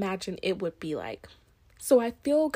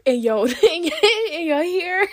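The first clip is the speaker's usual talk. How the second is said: talking wet and close to the mic; right in your ear; 9 semitones higher, 7 dB louder than usual. Real, not acted. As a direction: mouth salivating, close to mic. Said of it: "excuse me if you hear me in your ear".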